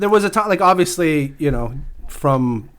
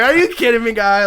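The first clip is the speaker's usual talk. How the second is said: higher-pitched retold amazement; mock disbelief; 8 semitones higher than usual. Fan recalls reacting to golfer's ace, mock disbelief. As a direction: act out being floored by a feat.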